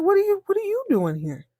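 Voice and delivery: high, startled mock gasp of a question; shocked Pam. Pam caught by Bobby at the pool, high shocked question. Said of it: "She's sitting there shocked".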